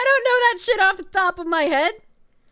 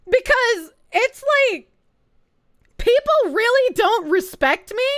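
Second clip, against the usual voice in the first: exasperated rant; 5 dB louder than usual. Real, not acted. Ranting at viewers about subs.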